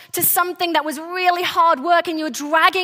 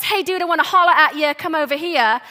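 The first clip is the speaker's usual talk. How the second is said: quick, offhand buddy call; casual; 3 dB louder, faster than usual. Acted. Preacher mocking up a casual call to a friend, offhand. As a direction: toss it off like hailing a pal. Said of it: "It's not this casual".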